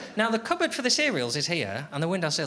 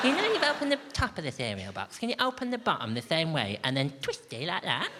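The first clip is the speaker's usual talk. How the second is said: lightly voiced fussy housemate; patronising explainer voice. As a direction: talk down to them as if to a toddler. Continues patronising instruction.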